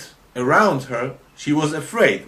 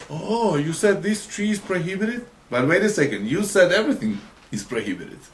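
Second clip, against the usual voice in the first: higher-pitched feigned astonishment, dropping at the end; mock challenge; 6 semitones higher, faster than usual. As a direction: challenge her with acted disbelief. Acting out tempter questioning her.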